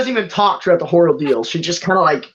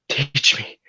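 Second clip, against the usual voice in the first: entranced; 2 semitones lower, 5 dB quieter than usual. Pretend. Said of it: "puts you in a trance".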